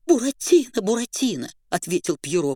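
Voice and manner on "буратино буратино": frightened call. Acted. Pierrot calls out frightened.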